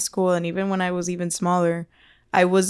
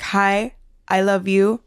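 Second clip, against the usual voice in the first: cheerful loving demo. Shown as a demonstration. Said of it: "it's like".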